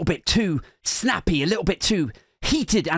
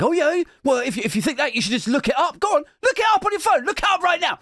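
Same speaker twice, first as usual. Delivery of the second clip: heated challenge; 7 semitones higher, faster than usual. Retold or imitated. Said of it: "And they're like".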